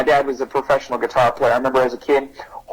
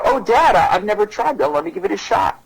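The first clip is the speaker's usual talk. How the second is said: a lightly voiced kid ready to try; eager kid; 7 semitones higher than usual. Kid telling dad he'll try it, eager.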